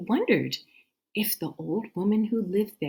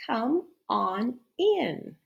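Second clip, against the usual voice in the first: slow, higher fake-grandma croak; hoarse wolf voice; 6 semitones higher, much slower than usual. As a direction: lure her in slowly. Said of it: "said a hoarse voice".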